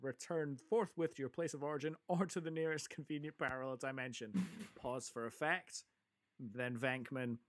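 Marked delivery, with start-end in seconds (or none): 0.0-4.5 brisk, higher-pitched formal declaration; mock-officious movie speech; imitated official proclamation. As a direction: rattle it off like an official order. Recites Ray's official challenge to Gozer.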